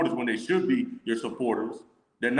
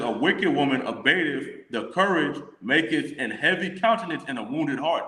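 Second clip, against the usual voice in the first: scripture reading. Acted. Rereads the same verse.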